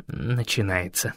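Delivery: soft slow whisper. A narrator's reading. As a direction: breathe it out quietly. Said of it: "прошептал Эрион". (тихий шёпот)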